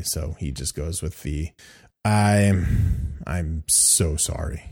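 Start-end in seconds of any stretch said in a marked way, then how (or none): 2.0-4.6 halting, slow acted apology; understated stunned stammer; flabbergasted. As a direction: at a loss for words, drawing out the apology. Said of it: "flabbergasted. He doesn't know what to say".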